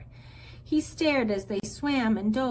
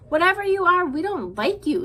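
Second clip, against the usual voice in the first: threatening; 9 semitones higher, 8 dB louder than usual. A narrator's reading. Bear threatens Roz.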